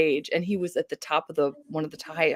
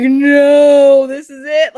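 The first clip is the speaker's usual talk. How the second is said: loud, higher cry of alarm; mock panic; 7 semitones higher, 13 dB louder, much slower than usual. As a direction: yell it as the dog runs off. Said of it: "we were like".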